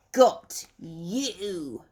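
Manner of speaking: snatch him with a squawk; owl squawk. Acted. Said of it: "squawked Old Brown".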